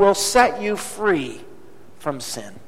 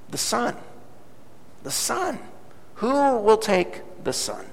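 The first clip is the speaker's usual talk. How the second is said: much softer, hushed call; soft pleading; 8 dB quieter than usual. A narrator's reading. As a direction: gently offer the son's painting. Auctioneer pleads softly.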